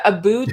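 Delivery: "about" said as "a-boot"; clipped-vowel Canadian take on "about", rhyming with "boot". Retold or imitated. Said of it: "like, the, instead of about".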